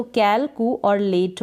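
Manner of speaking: "कैलकु और लेट" divided into three parts; broken into pieces. Shown as a demonstration. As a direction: sound out कैल, कु, then लेट. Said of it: "तीन टुकड़ों में". ("कैलकु और लेट" तीन टुकड़ों में)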